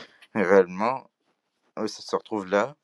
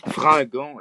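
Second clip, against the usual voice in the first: Fringant said with a Quebec accent, pitched higher; 7 semitones higher, 4 dB louder than usual. Shown as a demonstration. Vlogger correcting herself, saying Fringant in a Quebec accent. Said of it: "je dois utiliser mon accent québécois".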